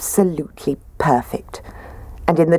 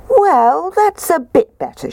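high Goldilocks voice; 13 semitones higher, 3 dB louder than usual. Acted.

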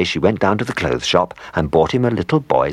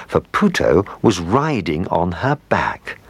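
ordinary delivery, nothing marked

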